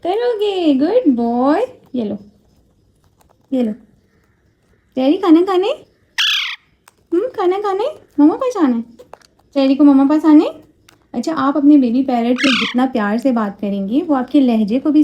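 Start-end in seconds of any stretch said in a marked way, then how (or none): 0.0-10.5 put-on high, sing-song baby talk; cooing to the parrot. Mother coaxing her parrot Cherry, high cooing baby talk. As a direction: coax the bird like a baby.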